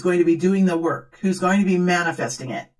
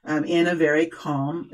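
calm voice demo; 3 semitones lower than usual. Shown as a demonstration. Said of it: "now I can't even do it for very long".

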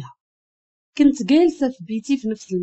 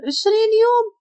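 high-pitched incredulous question; upset, pleading high voice; dismayed disbelief; 8 semitones higher than usual. A narrator's reading. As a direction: echo it high, then protest. Heroine dismayed at long absence.

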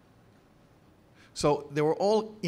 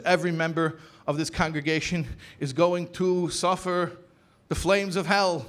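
retold fire and brimstone; 2 semitones higher than usual. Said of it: "he was giving a fire and brimstone sermon".

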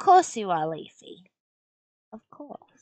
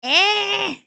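surprised yelp; 13 semitones higher, 10 dB louder than usual. Real, not acted. Reacts to mistake.

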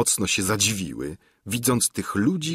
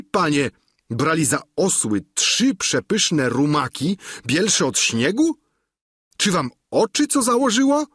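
Sancho pitched higher in mock disbelief; astonished squire; 6 semitones higher than usual. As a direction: feign shock at his master's blindness.

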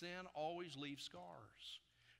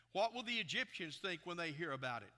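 loud, raised preacher's reading voice; forceful scripture reading; 2 semitones higher, 6 dB louder than usual. A narrator's reading. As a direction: proclaim the Lord's words to the whole congregation. Reads scripture aloud at full force.

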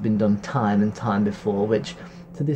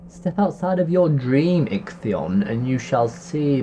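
witch voice; slower than usual. Acted. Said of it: "cackled the witch".

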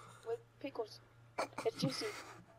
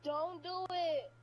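eerie slow plea; 4 semitones higher, much slower than usual. Acted. Prank caller's eerie warning.

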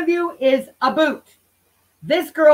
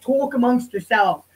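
put-on New York accent. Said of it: "that New York accent".

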